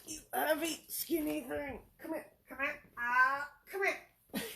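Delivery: high, soft cooing pet voice. Real, not acted. Owner coaxing the cat closer, high soft baby talk.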